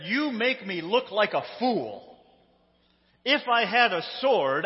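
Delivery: mock-furious telling-off of a donkey; acted indignant shout. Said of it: "Balaam shouted".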